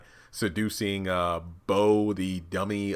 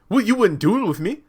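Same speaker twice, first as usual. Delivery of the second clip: high, loud put-on retort; mock protesting; 12 semitones higher, 6 dB louder than usual. Accused man answering Elder Mother, mock protesting. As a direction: protest it back in a raised voice. Acted whiny retort in quarrel.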